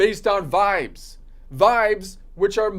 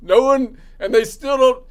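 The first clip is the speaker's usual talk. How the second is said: laughing; 3 semitones higher, 6 dB louder than usual. Real, not acted. Laughs at Supreme Court absurdity.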